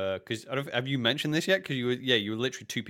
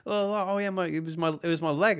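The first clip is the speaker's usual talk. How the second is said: breezy retold reply; 10 semitones higher than usual. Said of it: "And you".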